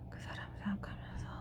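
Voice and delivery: breathy whisper to herself. Real, not acted. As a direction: murmur it under your breath, unvoiced. Muttering to herself while drawing cards.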